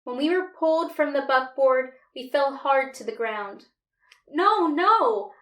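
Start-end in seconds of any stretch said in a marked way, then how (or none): 4.3-5.3 high, loud pleading cry; desperate begging. A narrator's reading. Boy begs soldiers dragging him and Pink away, high and loud. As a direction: beg them to stop. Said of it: "I begged".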